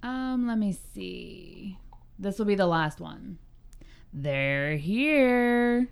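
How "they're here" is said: put-on creepy little girl voice. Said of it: "say it in that voice so that y'all would get it".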